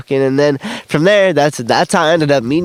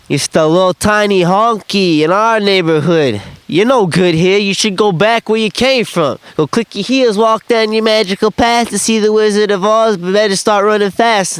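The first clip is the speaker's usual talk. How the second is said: raised-pitch sing-song jeer; mock taunt; 5 semitones higher than usual. Locals taunting the white kid in the hood, mocking jeer. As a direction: needle him in a higher voice.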